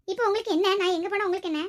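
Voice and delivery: snapping back. Acted. Daughter-in-law answering her mother-in-law's question, loud angry retort.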